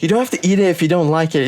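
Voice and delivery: put-on a lightly whiny girlfriend voice; whiny ex impression. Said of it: "my ex was like".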